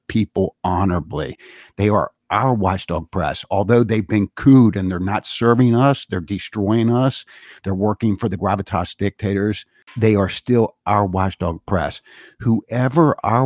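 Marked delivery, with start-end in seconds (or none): 1.8-3.5 "our" picked out with deliberate emphasis; stress on OUR. Real, not acted. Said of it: "I always emphasize the word our". 10.0-12.0 insistent weight on "still" and "our"; stress on OUR. Real, not acted. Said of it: "I always emphasize the word our".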